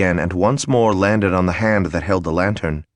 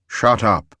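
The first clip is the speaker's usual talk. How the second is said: growled. A narrator's reading. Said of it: "growled his lordship".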